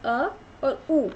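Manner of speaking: अ और ऊ said slowly and drawn out; slow vowel demo. Shown as a demonstration. Teacher building ओ from two vowels, slowly. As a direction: hold each vowel for the class. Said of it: "जब हम इन दोनों को मिला देंगे".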